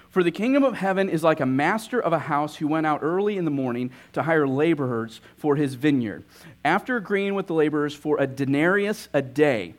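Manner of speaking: steady, measured reading of the parable; scripture reading. Acted. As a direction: read the Gospel text to the congregation. Reads the parable aloud.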